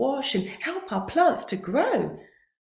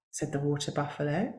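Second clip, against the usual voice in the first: ordinary delivery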